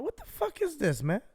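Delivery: high-pitched, softened mock freak-out; exasperated squeal at reduced volume; retold outburst. Accused rider to Uber investigator on the phone, mock losing it. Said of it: "lose my shit".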